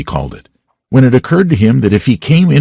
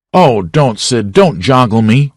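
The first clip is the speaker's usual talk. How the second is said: moaning; 3 semitones higher, slower than usual. Acted. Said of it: "Tom moaned out".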